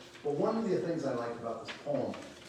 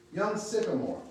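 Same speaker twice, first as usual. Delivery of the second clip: higher, emphatic title read-out; poem title announcement; 8 semitones higher, 4 dB louder than usual. Real, not acted.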